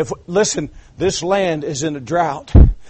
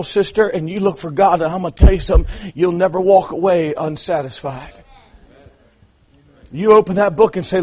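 ordinary talk, nothing marked

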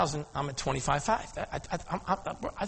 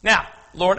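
ordinary delivery

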